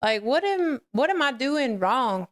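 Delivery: high, puzzled plea to the Lord; retold bewilderment. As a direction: ask it upward, acting baffled. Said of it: "scratching my head and I'm like".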